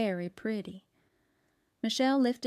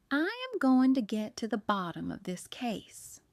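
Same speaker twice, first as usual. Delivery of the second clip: whispering; 2 semitones higher than usual. Acted. Mama vows to solve case.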